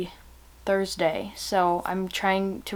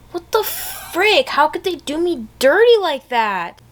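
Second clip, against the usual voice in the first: mock outrage; 8 semitones higher, 6 dB louder than usual. Real, not acted. Outraged at the cliffhanger.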